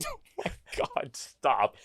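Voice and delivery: fangirl squeal. Retold or imitated. Imagined fangirl reaction.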